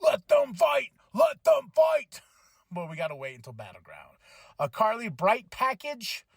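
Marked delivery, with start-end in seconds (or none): 0.0-2.2 rising to a high slow shout; building yell. Retold or imitated. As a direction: scream for the fight. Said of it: "I'm like".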